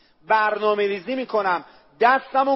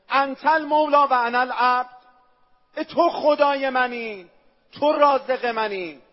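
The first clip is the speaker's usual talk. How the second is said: heartfelt prayer; 4 semitones higher than usual. Acted.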